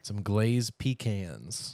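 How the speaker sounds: slow, drawn-out "pecans" said as pick-ANZ; repeating pecans. Real, not acted. Teasing over how to say nuts, slow "pecans". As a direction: stretch "pecans" with a long flat a.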